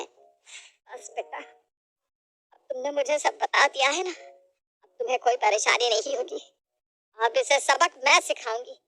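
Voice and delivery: slow, hushed comfort; calm her with a promise; reassuring mother-in-law. Acted. Mother-in-law reassures her daughter-in-law, slow and hushed.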